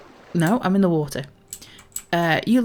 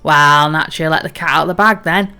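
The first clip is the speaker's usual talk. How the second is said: hearty salty sea captain, a touch louder; pirate captain; 2 semitones lower, 6 dB louder than usual. Acted. Captain tells the crew a bawdy tale, hearty pirate voice. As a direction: boom it out like an old sea dog.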